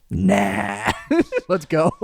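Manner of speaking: high laughing nah; laughing brush-off. Retold or imitated. Deciding to walk away from the kid, laughing. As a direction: shrug it off through laughter.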